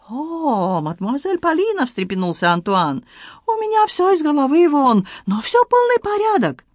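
excited Frenchman in broken Russian, high; Antoine voice. Acted. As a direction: play the flustered Frenchman, pitched high. Antoine startled.

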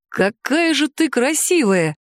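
slow, breathy awe at her beauty; breathless admiration. Acted. Dragon uncle smitten by the stranger, breathy and slow. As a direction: sigh the words out, smitten. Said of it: "с придыханием произнёс дядя Киан".

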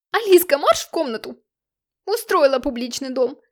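angry shout. A narrator's reading. Parents screaming at daughter.

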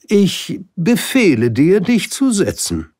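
high, loud, slowed royal permission; dignified king. Acted. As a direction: grant it with dignity. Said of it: "würdevoll". (würdevoller König, hoch, laut und langsam)

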